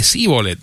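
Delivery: síbolet with a plain s; s sound opening síbolet; mispronounced shibboleth. Shown as a demonstration. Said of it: "No podían de-, pronunciar".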